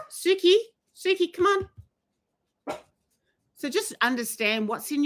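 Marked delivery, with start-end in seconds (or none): 0.1-1.7 calling out. Real, not acted. Calling her dog mid-live.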